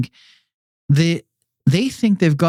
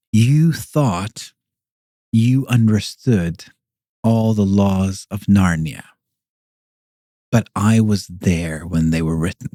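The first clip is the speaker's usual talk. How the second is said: Aslan voice; 5 semitones lower, slower than usual. Retold or imitated. Aslan voiced in retold Narnia story.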